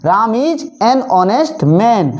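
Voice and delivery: very slow repeat; very slow dictation. Shown as a demonstration. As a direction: dictate it for students to copy. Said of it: "अगला".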